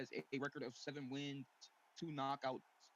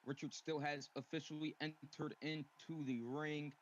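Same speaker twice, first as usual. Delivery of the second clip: boxing ring announcer; 2 semitones lower, slower than usual. Acted. Ring announcer introducing fighter.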